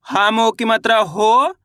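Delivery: slow teacher's demonstration, long rising "हो"; spelling drill. Shown as a demonstration. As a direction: draw out "हो" with a rising end. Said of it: "चलिए देखिए किस तरीके से".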